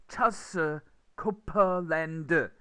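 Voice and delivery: "Charles Copeland" as Korean syllables, cha-seu ko-peu-len-deu; Konglish pronunciation. Shown as a demonstration. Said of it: "if you write it in Korean, it comes out as".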